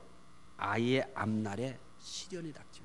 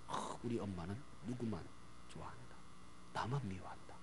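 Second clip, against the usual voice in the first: put-on very soft, low inner voice of a resentful child; child's secret grumble; 6 semitones lower, 14 dB quieter than usual. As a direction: mumble it privately, as a hurt child thinking. Child's secret resentful thought, acted.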